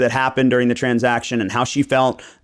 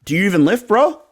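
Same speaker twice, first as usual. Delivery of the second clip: mock gym bro; 5 semitones higher than usual. Mocking Nate as a gym bro.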